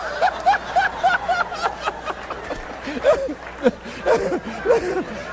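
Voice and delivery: sustained high laughter; real laugh; long high laugh. Real, not acted. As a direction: laugh hard. Laughing at own story.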